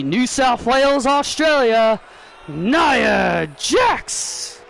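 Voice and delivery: formal match introduction, name drawn out at the end; ring announcer. Pretend. Announcer introduces Nia Jax before her match, ring announcer. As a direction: announce the wrestler to the arena, building to the name.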